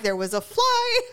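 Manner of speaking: flustered excuse. Retold or imitated. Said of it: "I'm like".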